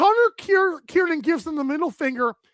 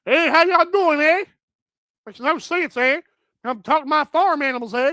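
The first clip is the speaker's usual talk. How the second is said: mock rural Canadian twang; country Canadian accent. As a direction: play the country Canadian with tagged-on eh. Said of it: "country Canadians".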